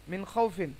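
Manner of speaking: মিন খাউফিন with a soft, quick "khau" glide. Shown as a demonstration. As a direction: read মিন খাউফিন softly, without lingering. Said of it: "নরম করে পড়তে হবে, তাড়াতাড়ি পড়তে হবে".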